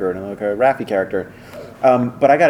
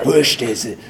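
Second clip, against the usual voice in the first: pushed dark Leo voice; slower than usual. Retold or imitated. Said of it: "like this".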